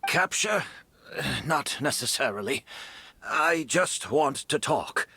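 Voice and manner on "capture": startled, rising "Capture?"; surprised echo. Acted. Detective caught off guard by the word, surprised. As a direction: catch the word back in surprise. Reacts to accusation of bait.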